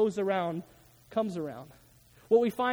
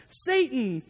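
booming voice; 4 semitones higher than usual. Retold or imitated. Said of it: "in a booming voice".

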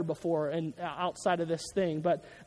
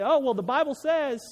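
higher, mocking defensive tone; mocking whiny voice; 4 semitones higher than usual. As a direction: parrot them scornfully. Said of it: "They say".

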